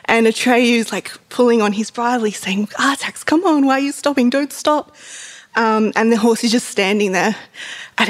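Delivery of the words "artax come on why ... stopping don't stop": mildly acted pleading, higher voice; pitched-up mock distress. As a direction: plead anxiously, as if retelling. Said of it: "Atreyu's getting more and more distressed".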